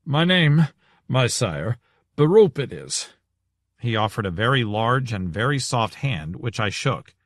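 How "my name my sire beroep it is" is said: panting after climbing stairs; winded, gulping air between words; out of breath. Acted. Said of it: "red-faced and panting after two flights of stairs".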